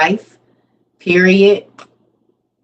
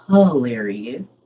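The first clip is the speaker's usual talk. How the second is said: drawn out; 8 semitones lower, 4 dB quieter, much slower than usual. Real, not acted. Amused reaction to a comment.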